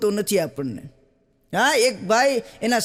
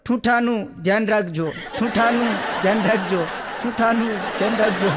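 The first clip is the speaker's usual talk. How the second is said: laughing warning. Retold or imitated. Husband warns bearers, laughing.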